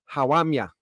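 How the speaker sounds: "How am ya?" in a Black Country twang; lightly mimicked Black Country accent; Black Country dialect. Shown as a demonstration. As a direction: imitate a Black Country local greeting. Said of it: "They'll say".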